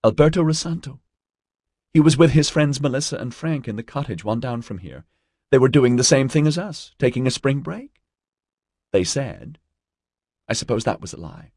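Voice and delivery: put-on high girlish voice, upset; distraught young student, recounting. A narrator's reading. Narrator voices April recounting.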